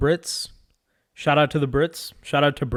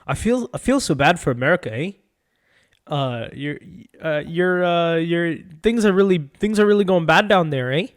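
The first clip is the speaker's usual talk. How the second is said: lightly mocked Canadian accent with rising "eh"; a hint of hesitant, sympathetic Canadian; Canadian impression; 3 semitones higher than usual. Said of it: "That's not how Canadians sound".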